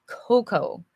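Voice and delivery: cocoa said KOH-koh, ending in an oh sound; cocoa with two long oh vowels, no final ah; English cocoa. Shown as a demonstration. Teacher shows students the English way: cocoa as KOH-koh. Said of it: "Notice how I pronounced hot".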